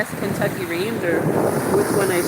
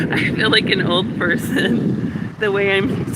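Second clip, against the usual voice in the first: shivery laugh. Real, not acted.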